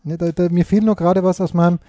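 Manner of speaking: talking while chewing; mouth full. Real, not acted. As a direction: speak through a mouthful of food. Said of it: "Aus dem Mund?".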